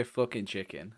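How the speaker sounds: quiet, low Scouse demo; Scouse accent. Shown as a demonstration. Tip for getting into Scouse, understated Scouse accent. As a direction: drop lightly into Liverpool vowels. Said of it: "if you ever need to go scouts".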